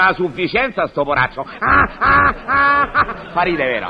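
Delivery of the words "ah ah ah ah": laughing. Acted. Pest laughs at own pun.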